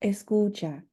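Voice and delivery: gentle escucha that draws a student in. Shown as a demonstration. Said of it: "I would recommend saying something more like".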